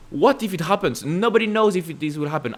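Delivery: excited rhetorical question. Real, not acted. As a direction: throw the question out with rising energy. Rhetorical worry about oil prices.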